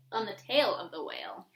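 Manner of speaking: hushed whisper to close the verse. A narrator's reading. Reading to a child, whispering the last line. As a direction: drop to a secret whisper for the little ones.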